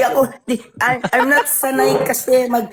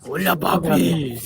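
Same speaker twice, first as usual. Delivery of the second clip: slow, low teasing hola; mock flirty greeting; 6 semitones lower, slower than usual. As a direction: purr it slow and cheesy. (mabagal at malanding pagbati)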